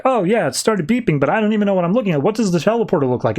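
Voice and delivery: high and rushed, babbling; flustered Supergirl. Retold or imitated. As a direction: gabble it out, clueless. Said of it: "she's like".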